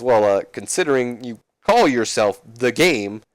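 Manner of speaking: slow, drawn-out wry comeback; amused teasing. Retold or imitated. Foley answering Triple H's game line, amused and teasing. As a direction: ease into a rising, teasing admission. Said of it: "Foley chuckles, and he says".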